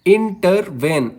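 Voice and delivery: इंटरवेन slowly in syllables, weight on वेन; stress on last syllable. Shown as a demonstration. Teacher giving an anapest example, slow stress on वेन in इंटरवेन. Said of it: "मैं इसको कैसे बोल रहा हूँ".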